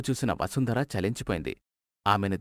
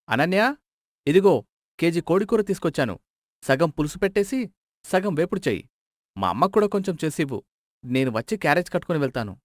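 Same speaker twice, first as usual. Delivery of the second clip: calling out; 3 semitones higher than usual. Acted. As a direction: call to the wife from the door. Husband calls wife from the door.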